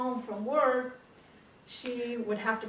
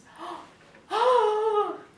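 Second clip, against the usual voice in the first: loud, high, drawn-out gasp; aghast gasp; 13 semitones higher, 12 dB louder than usual. Acted. Wife hearing husband's magic theory, loudly aghast. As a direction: gasp hugely in acted disbelief. Wife's stunned reaction, acted.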